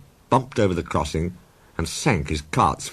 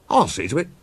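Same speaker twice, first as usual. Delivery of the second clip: signalman voice; 8 semitones higher than usual. A narrator's reading. Signalman character voice.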